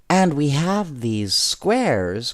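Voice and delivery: put-on a girl crying out her bright idea; eager cry. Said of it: "cried Betty Watson".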